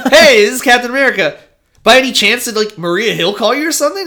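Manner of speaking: high, fast, falsely friendly phone voice; sly Steve. Retold or imitated. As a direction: play innocent while fishing for something. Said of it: "He's like".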